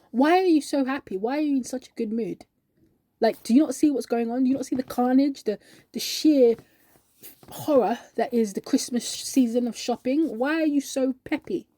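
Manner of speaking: rising exasperation at someone's cheer; exasperated disbelief. Acted. Worn-out worker questioning her happy colleague, exasperated. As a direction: demand an explanation, incredulous.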